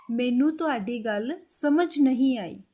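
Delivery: slow demo. Shown as a demonstration. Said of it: "और पंजाबी में बोलेंगे".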